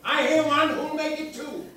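loud auctioneer's call. Acted. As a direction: call for bids to the room. Auctioneer calling for bids.

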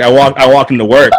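usual speaking voice

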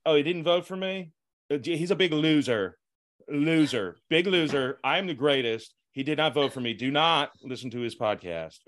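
a lightly voiced Trump, boastful and taunting; Trump impression. Host asks for Trump, guest mocks him as a loser. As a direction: sneer 'loser' like a brash president. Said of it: "can you break off some Trump".

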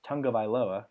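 Tagovailoa said as "tung-guh-vai-LO-uh"; careful pronunciation. Shown as a demonstration. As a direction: pronounce Tagovailoa carefully with an "ng" after the first vowel. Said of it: "That's how you pronounce his name".

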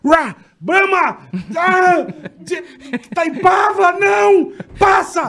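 high yelling to call the dog off; shouting at dog. Retold or imitated. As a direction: yell names at a charging dog. Calling beer names at the dog. (gritando alto com o cachorro)

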